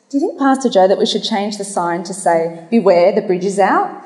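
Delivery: lightly put-on Irish accent for a punchline; amateur Irish priest voice; attempted Irish accent. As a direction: deliver the joke's punchline with a hint of Irish. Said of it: "try my best to do an Irish accent".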